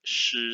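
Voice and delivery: 是 with the tongue curled up; rolled-up tongue sound. Shown as a demonstration. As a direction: roll up your tongue to say 是. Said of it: "please roll up your tongue".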